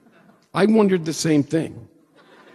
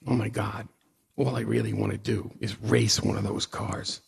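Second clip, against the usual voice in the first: soft, longing inner voice; quiet yearning thought; hushed inner wish; 3 semitones lower, 6 dB quieter than usual. Retold or imitated. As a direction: say it to yourself, barely aloud.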